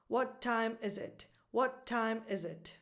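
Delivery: "What time is it" leaning on "time" and "is"; stress on TIME and IS. Shown as a demonstration. Teacher exaggerates the question's music, stress on TIME and IS. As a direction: let "it" fall away after "is". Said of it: "two operative words".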